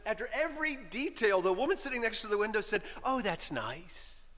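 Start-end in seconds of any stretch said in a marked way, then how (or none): 3.0-4.2 slow, soft and sincerely sweet. Retold or imitated. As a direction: say it slowly, as if every detail delights you. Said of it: "In the sweetest, most sincere voice".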